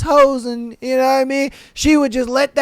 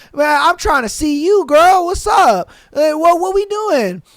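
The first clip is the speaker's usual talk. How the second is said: put-on pleading drunk; 4 semitones higher than usual. Drunk guy pleading on call.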